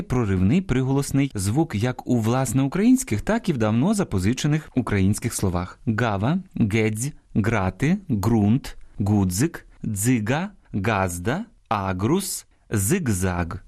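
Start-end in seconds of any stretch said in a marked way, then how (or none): 5.9-12.5 each word said slowly with a hard stop g; чітке ґ у кожному слові. Shown as a demonstration. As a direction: sound the g in гава, гедзь, ґрунт like a hard stop. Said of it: "Послухайте коротеньку історію про цей звук".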